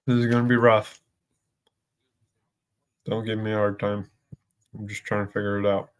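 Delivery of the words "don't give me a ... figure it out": chewing while talking. Real, not acted. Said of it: "Sorry, I'm chewing".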